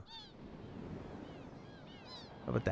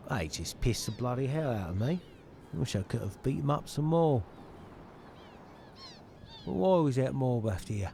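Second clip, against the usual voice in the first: tag; 2 semitones higher than usual. Acted. Voices game dialogue.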